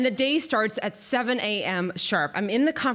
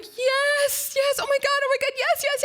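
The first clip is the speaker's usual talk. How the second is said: much higher, overjoyed squeals of yes; breathless ecstatic yes yes yes, pitched way up; ecstatic screaming yes. Retold or imitated. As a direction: scream yes like he just proposed. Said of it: "And I'm crying and I'm screaming".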